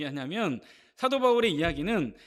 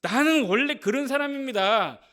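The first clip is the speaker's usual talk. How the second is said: quoted excuse; 4 semitones higher, 4 dB louder than usual. Retold or imitated. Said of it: "그건 예수 믿기 전이나 그러는 것이고".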